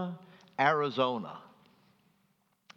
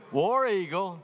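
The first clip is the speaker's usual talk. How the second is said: loud, higher cheer of War Eagle; team cheer called out; 7 semitones higher, 4 dB louder than usual. Retold or imitated. Strangers greeting an Auburn fan, loud cheer. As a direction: call it out like a fan in the street. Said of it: "they would say one of two things".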